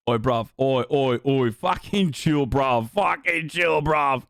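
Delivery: put-on British bruv voice; mock British accent. Brit telling the streamer to chill, mock British accent. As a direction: tell them off like a mock Brit. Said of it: "I'm doing a British accent".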